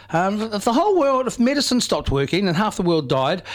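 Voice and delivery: lightly imitated young girl, somewhat high; little girl. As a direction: run on like a schoolgirl with a tangled question. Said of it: "And so she's like".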